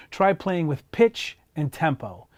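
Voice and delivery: usual speaking voice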